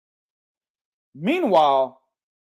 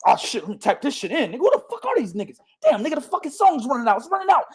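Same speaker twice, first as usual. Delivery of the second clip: softer, fast, mock panicked muttering while typing; mock panicked scramble; 3 semitones higher, 4 dB quieter, much faster than usual. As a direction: play someone frantically searching names. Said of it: "they gonna scramble".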